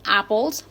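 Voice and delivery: "apples" tilted up at the end; rising intonation. Shown as a demonstration. Teacher pointing out a list item, rising on "apples". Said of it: "sube la entonación en".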